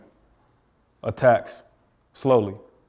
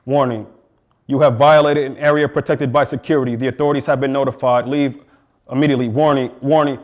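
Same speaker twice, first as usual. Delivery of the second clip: starts as a flat recorded security warning, then builds much louder and higher until it is a shout; a looping security alarm that escalates into screaming; 3 semitones higher, 6 dB louder than usual. Acted. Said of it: "An alarm, a holler on blast every night".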